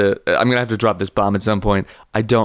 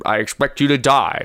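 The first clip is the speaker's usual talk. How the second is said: Sean Connery; 3 semitones higher than usual. Pretend. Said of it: "I was doing Sean Connery".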